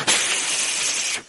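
long hissed shush. Acted. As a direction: hush them with a drawn-out "shh". 示意同伴别出声. (长长的嘘声)

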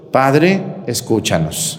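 priest intones the response for all to repeat; leading the response. Shown as a demonstration. Priest to congregation, leading the prayer response. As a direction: call it out so they follow. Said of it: "vamos a decir todos".

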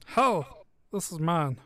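tiny dragon, loud proud squeak. Acted. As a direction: puff up like a tiny hoarding dragon.

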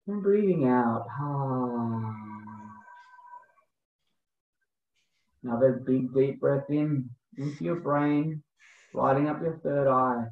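slow, calm breathwork guide voice; guided meditation. Acted. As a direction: lead the breathing gently, unhurried.

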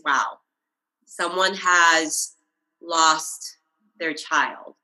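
slow, close to crying; fighting real tears, words slowing; holding back tears. Real, not acted. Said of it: "I'm gonna start crying".

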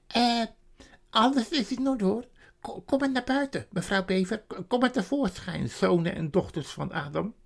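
a flustered beaver calling the family out; high-pitched excited beaver. Acted. Mr Beaver voiced in story.

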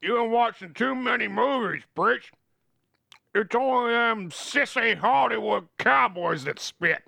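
folksy cowboy talk, stretching the punch words; cowboy Jeb. Acted. Reads Jeb the cowboy's lines.

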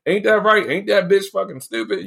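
imitating aunt Tina. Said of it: "my aunt Tina will sit there".

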